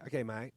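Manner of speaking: "mate" with a long nasal Australian A. Shown as a demonstration. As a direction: model "mate" the Aussie way. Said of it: "The A has to be a little more longer and nasal".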